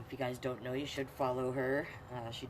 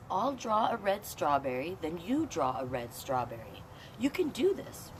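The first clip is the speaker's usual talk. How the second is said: lightly voiced encouraging teacher, higher and louder; 3 semitones higher, 4 dB louder than usual. Storyteller voicing the teacher for a child, a hint of sing-song. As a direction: coax like a patient teacher. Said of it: "Scarlett, the teacher says".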